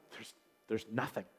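very soft, low, halting retold reply; dejected. Discouraged man asked for good things about himself, dejected. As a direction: drop right down, as if defeated.

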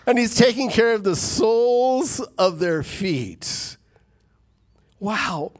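whispered in wonder; awed whisper. Acted. Preacher to congregation, a reverent whisper. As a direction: hush it like a secret of grace.

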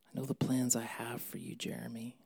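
whispered intimately to one person; hushed personal whisper. Shown as a demonstration. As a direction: drop to a soft whisper on "I know the plans".

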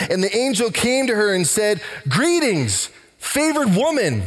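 lifted, measured Bible reading voice; preacher reading Luke aloud; scripture reading. Acted. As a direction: read the passage aloud to the church.

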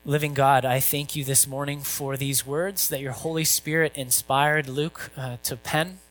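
hushed pastoral prayer. Acted. Opening prayer before sermon.

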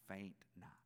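slow breathy whisper. Acted. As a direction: breathe the phrase out slowly. Verse ending whispered.

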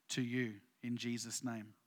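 low whispered blessing. Real, not acted. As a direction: hush it to a breath, close and low. Pastor closing on a hushed promise.

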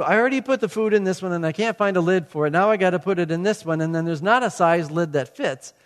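mildly exasperated mock rant; retold frustration. Preacher replaying his struggle to find a lid, frustrated. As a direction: reenact a fussing complaint. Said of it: "I was just getting frustrated".

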